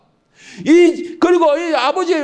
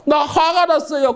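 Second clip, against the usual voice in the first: slow, sulking son; slow hurt complaint of the elder son; slow sulky complaint; 3 semitones higher, slower than usual. Acted. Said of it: "큰아들이 그런 거예요".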